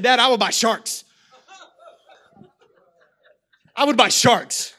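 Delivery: lightly voiced excited child; kid voice. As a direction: play an eager eleven-year-old. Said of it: "and he said".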